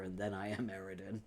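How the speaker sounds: dropping to a soft, dull murmur. Shown as a demonstration. Streamer showing chat how she turns into Eridan, dropping soft. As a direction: let the voice sink into a dull hush. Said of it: "Love how you just proceeded to demonstrate".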